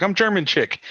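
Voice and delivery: high, loud retold self-introduction; imitated fan introduction. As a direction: mimic an excited fan announcing herself. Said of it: "She's like".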